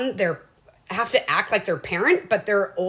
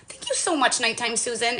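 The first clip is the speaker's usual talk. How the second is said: grateful thanks; 2 semitones higher than usual. Retold or imitated. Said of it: "in the morning I'd say".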